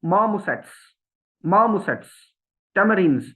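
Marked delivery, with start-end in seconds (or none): 0.1-2.1 "marmosets" as mah-mosets; r dropped. Shown as a demonstration. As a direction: drop the r in marmosets. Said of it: "पहले में नहीं बोला गया". (marmosets बिना आर के)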